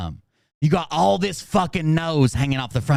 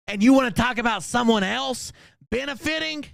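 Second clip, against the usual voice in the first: angry rant; 7 semitones higher than usual. Real, not acted.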